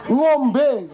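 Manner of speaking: "Ngombe" said with a clear ng sound at the start; initial NG demo. Shown as a demonstration. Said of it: "nggak bisa ngomong ngombe". (pengucapan "Ngombe" dengan bunyi ng di awal)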